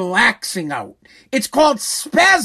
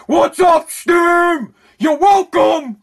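mock yell; 4 semitones higher, much slower than usual. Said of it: "I'm out there".

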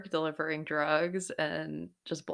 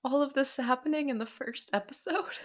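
mock disbelief; 8 semitones higher, 3 dB quieter than usual. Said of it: "I'm like".

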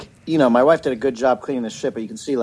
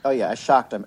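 normal talking voice

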